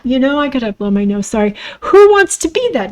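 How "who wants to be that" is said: emphatic question. Real, not acted. Repeated, louder and higher.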